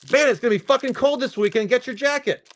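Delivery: high, loud, casual forecaster voice; mock swearing weatherman. Imagined newscaster warns viewers, high and loud. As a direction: play a newscaster telling viewers bluntly.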